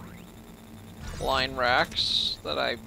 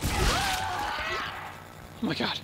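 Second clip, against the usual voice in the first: terrified squeak; 8 dB quieter, much slower than usual. Real, not acted. Terrified squeak after attack.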